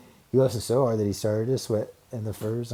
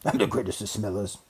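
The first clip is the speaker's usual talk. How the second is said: bragging. Acted. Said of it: "he bragged".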